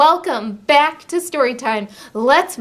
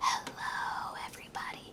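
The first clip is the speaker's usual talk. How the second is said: barely audible, very quiet whisper. Asking everyone to say hello as quiet as they can, whispering as quietly as possible. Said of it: "Let's say hello as quiet as we can".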